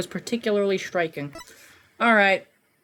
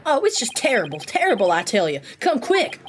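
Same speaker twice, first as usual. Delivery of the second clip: put-on Southern accent. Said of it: "the southern accent as well".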